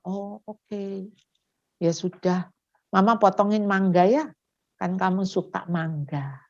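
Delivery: soft, soothing parent; acted calm, quiet reassurance; comforting mother. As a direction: gently console a cross child. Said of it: "justru Anda menghibur".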